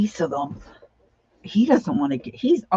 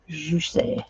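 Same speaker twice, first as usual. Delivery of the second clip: whispered juicy; 3 dB quieter than usual. Real, not acted. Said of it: "whispered repeat of the word".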